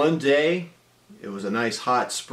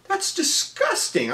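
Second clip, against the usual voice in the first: mock disgust. Disgusted reply in retold scene.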